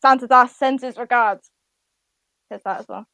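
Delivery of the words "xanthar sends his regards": deep orcish voice. Acted. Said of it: "a deep orcish accent".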